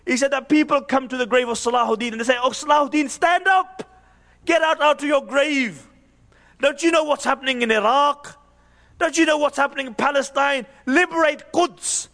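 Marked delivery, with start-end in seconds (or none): 2.4-12.1 raised-pitch urgent appeal to the dead; imploring, insistent retold plea; urgent summons. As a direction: call on a buried hero to rise. Acted plea at Saladin's grave.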